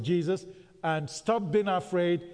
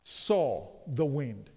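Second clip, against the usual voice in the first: each word drawn out slow for the congregation; slow emphatic repeat; 3 semitones lower, slower than usual. Shown as a demonstration. Preacher to congregation, repeating the phrase slowly and emphatically. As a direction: spell it out slowly so they answer back. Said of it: "when he what?".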